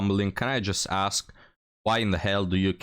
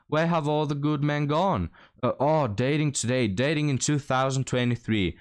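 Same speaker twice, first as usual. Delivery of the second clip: whining woman; 4 semitones higher than usual. Retold or imitated. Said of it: "she's gonna start whining".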